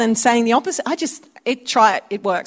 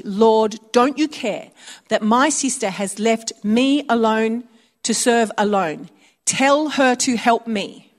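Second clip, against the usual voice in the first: irritated complaint; slower than usual. Retold or imitated. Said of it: "You can sense the irritation".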